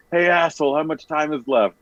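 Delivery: high, mock yell across the arena; hammed-up yell. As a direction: call it out like a heckler in the stands. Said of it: "you're yelling it as loud as you can yell it".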